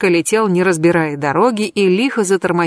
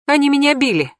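high, whiny complaint about being beaten; a pleading, tearful-sounding grievance; complaining; 8 semitones higher than usual. A narrator's reading. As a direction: whine it like a wronged victim. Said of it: "пожаловалась я".

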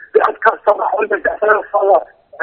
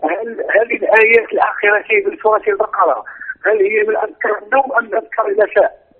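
speaking up. Real, not acted. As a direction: raise the voice for the host. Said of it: "ارفع الصوت شوي".

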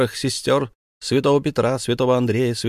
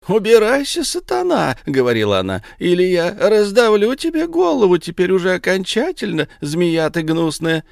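higher, louder scornful dismissal; indignant rebuke; 8 semitones higher, 4 dB louder than usual. A narrator's reading. Madonna orders Satan away, indignant and raised. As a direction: drive the serpent away with contempt.

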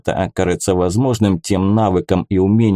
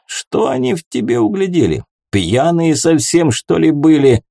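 put-on drunk tavern keeper; 4 semitones higher than usual. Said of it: "тот и сам крепко уже выпил".

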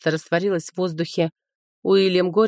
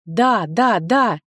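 eager shout; 3 dB louder, much slower than usual. Acted. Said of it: "тут же выкрикнула".

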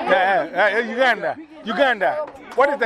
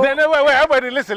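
louder call to get everyone's attention; 4 semitones higher, 4 dB louder, much faster than usual. Real, not acted. Father calling out to the noisy children to listen.

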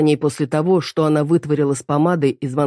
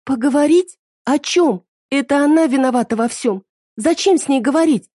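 shouting daughter; 10 semitones higher than usual. Acted. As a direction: scream your hatred at her. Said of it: "кричит Мире".

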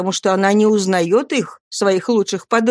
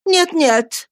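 high quick no-no; eager denial; 12 semitones higher than usual. A narrator's reading. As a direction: urge her on eagerly. Matron urges more.

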